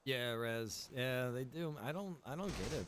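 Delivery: ordinary talk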